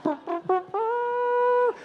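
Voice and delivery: high trombone notes with the mouth; imitated trombone. Shot person celebrating with the jazz band, mouthed trombone. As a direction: toot a celebratory horn riff, last note held long.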